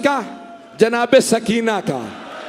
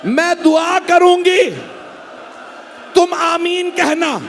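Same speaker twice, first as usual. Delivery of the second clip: calling out a prayer; 4 semitones higher than usual. Retold or imitated. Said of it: "Sakina's words continue".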